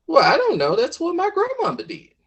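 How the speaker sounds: a hint of a defensive country mama; clueless mama. Mama answers in story.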